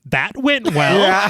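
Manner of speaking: sitcom quip. Acted. Burke approaches defeated Ripley after the hearing, light sitcom quip. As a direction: land it like a light sitcom punchline. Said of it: "perhaps forecasting his sitcom future".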